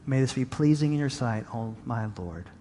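soft, sinking to very low and quiet at the end; murmured prayer, trailing down low; hushed prayer. Real, not acted. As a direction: offer it up quietly to God. Short prayer addressed to God.

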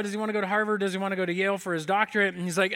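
normal talking voice

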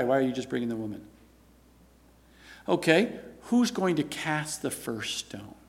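softly posed, understated challenge; calm. Acted. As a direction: put the question quietly, unruffled. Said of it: "He just calmly said".

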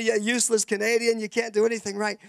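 a touch of a yelling farmer; mock yell. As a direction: boss shouting insults at the Canadian. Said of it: "he's yelling at me".

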